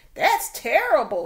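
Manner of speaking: very loud, shrill squawking cry. Narrator reads a duck reacting to news from two other birds: squawking. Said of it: "squawked Ducky Lucky".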